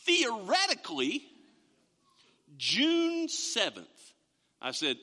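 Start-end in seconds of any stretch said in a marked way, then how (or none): 0.0-3.9 hesitant answer. Retold or imitated. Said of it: "and then I get this".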